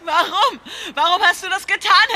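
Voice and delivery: rising, accusing why; betrayed officer confronting her partner, voice rising; hurt angry demand. Acted. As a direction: demand an answer from the traitor.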